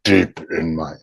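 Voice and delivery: loud, pushed counterexample; forced, unrelaxed. Shown as a demonstration. Showing followers how not to deepen it, forced. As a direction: punch it out without any relaxation. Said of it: "like, it's not go deep in my".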